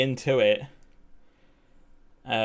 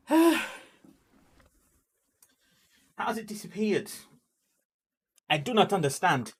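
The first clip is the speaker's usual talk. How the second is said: confused; 6 semitones higher than usual. Real, not acted. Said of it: "I'm really confused".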